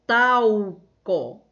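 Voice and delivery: talco drawn out as "taaau-co", L sounding like U; added L sound. Shown as a demonstration. Teacher showing how L changes taco into talco, drawn out as "tau-co". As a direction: stretch the first syllable of talco to show the U-like L. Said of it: "foi colocado o L depois do A".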